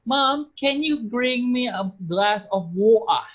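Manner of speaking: slow Scottish request, with water as wo-a; mock Scottish ask to Mom; Scottish accent. Shown as a demonstration. Teacher demos a Scottish request to students.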